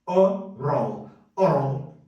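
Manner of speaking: oral run together fast as O-rol; said quickly. Shown as a demonstration. Teacher shows oral spoken fast. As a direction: clip oral short and quick. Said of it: "falado bem rápido".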